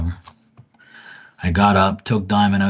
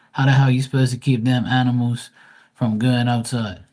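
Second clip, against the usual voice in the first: loud, higher, outraged question; indignant; 5 semitones higher, 4 dB louder than usual. Real, not acted. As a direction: demand it in disbelief. Outraged about the school job.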